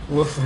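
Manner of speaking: playful fake woof; mock dog bark. Answering a teammate with a joking dog woof. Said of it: "Are you a dog?".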